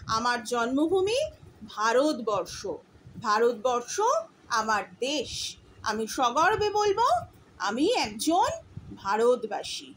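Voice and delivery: proud declaration. Shown as a demonstration. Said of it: "খুব গর্বের সঙ্গে বলবে".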